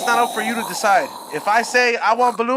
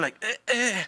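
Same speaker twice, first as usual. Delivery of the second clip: anime pain groan; 5 dB quieter than usual. Retold or imitated. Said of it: "anime pain sounds different".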